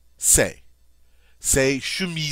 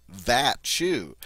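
THAT leaned on, shoe falling after it; contrastive stress. Shown as a demonstration. Teacher picking that shoe as opposed to this shoe, stress on THAT. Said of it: "make sure you know it is that one".

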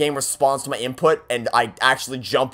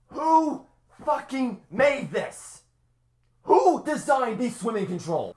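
exasperated outburst; 9 semitones higher, 5 dB quieter, slower than usual. Real, not acted. Raging at the game.

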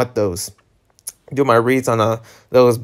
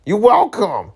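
higher, lilting you're welcome; mock sing-song; 7 semitones higher than usual. To viewers after reading two chapters, teasing sing-song. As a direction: toss a teasing thank-you back.

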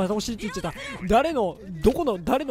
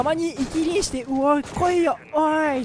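cocky taunt; 6 semitones higher than usual. Retold or imitated. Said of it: "っつって、主人公補正みたいな感じで".

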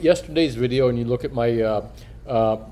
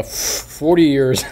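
"forty years" said again, slowly and carefully; slow careful redo; 2 semitones higher, 3 dB louder, much slower than usual. Real, not acted. Coin dealer repeating the phrase his missing tooth slurred, slow and careful. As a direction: spell out "forty years" deliberately, each word clear. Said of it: "My tooth is".

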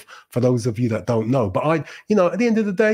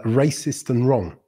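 ordinary talk

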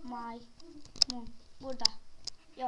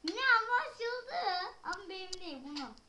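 whiny crying; 3 semitones higher than usual. Real, not acted.

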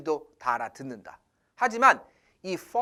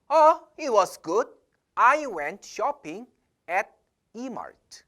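Jane answering; 2 semitones higher, much slower than usual. Retold or imitated. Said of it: "제인이".

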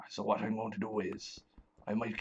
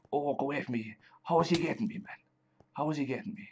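higher-pitched, flustered protest; alarmed; 5 semitones higher, 4 dB louder, faster than usual. Real, not acted. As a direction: fend off an attacker in a panic. Monster attacks the player in game.

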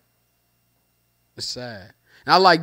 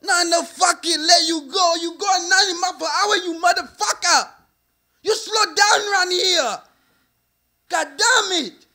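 high, furious shouting cop in a mock Asian accent; 13 semitones higher than usual. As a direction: scream at the driver like an angry foreign cop. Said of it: "He got the Asian accent".

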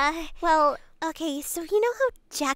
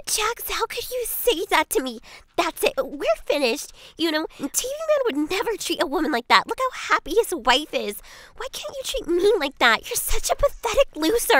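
hurt, louder breakup rant; emotional outburst; 3 semitones higher, 5 dB louder than usual. Acted. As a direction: raise your voice, wounded and fed up. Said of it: "Stop being so emotional".

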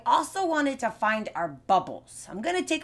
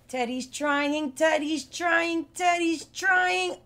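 building cheer; 7 semitones higher than usual. Pretend. Cheering teddy on jar.

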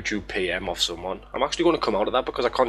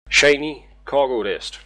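shouting; 3 semitones higher, 4 dB louder, slower than usual. Real, not acted. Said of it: "I don't know why I shouted that at you".

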